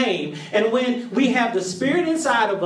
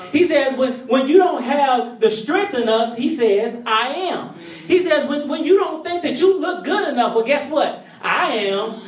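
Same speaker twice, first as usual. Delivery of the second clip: rising sermon; 2 semitones higher than usual. Real, not acted. Preacher to congregation, building fervent preaching. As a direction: lift the congregation as the preacher climbs.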